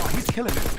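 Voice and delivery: impressed thought. Retold or imitated. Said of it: "and I thought".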